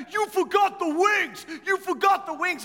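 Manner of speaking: jab the words at him, outraged; angry best man. Retold or imitated. Angry best man pushing the pastor in the lobby, yelling. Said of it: "He's mad".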